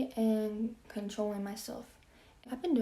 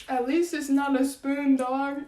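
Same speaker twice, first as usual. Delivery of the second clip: mouth full; 3 dB louder, slower than usual. Real, not acted. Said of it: "I talk with my mouth open".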